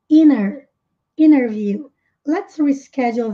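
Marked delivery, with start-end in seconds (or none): 0.1-0.7 "inner" said with the N straight into the vowel, no T; dropped T. Shown as a demonstration. Teacher isolating the "inner" sound, no T. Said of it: "é a forma como ele disse aqui". 1.2-1.9 "interview" said as "innerview", no T; dropped T in interview. Shown as a demonstration. Teacher to students, "interview" without T. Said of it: "é a forma como ele disse aqui".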